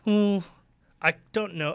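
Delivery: ordinary delivery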